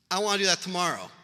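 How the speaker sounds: mock an eager mom jumping at an idea; a touch of imitated excitement. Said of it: "My mom's super eager".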